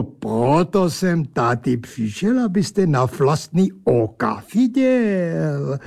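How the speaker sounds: lightly voiced pompous angel; odd angel voice. Angel character speaks.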